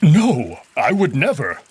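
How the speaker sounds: startled wolf partner blurting a denial; instant denial. A narrator's reading. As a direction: rush to deny it. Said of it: "reaction to my teasing is instant and visceral".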